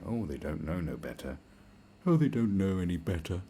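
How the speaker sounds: put-on patronising pity; mock condescension. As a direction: talk down as if excusing dumb animals. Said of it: "condescending animals going".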